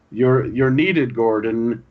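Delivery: slow, stretched-out deep voice like a stern dad. Retold or imitated. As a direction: imitate a stern father's grave order, drawing out the last words. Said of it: "he says it with this deep voice".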